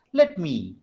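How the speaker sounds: "Let me" with the weight on "me"; "me" stressed, "Let" lighter. Shown as a demonstration. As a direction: lean on "me" after a lighter "Let". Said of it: "me has more stress".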